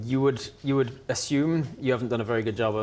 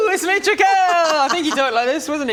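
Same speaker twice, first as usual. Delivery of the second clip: camp it up as the fake vampire; mock Trikel; 8 dB louder than usual. GM mocking player's disguised vampire act. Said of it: "You're like".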